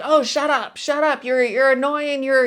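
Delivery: mock yelling. Scolding a hurt child at the park, mock loud yell. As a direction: snap it out like an irritated grown-up, hammed up. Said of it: "yelling at them".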